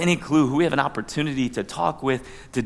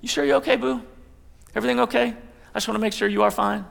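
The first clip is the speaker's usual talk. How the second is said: caring husband; 5 semitones higher, faster than usual. Pretend. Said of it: "Lean in".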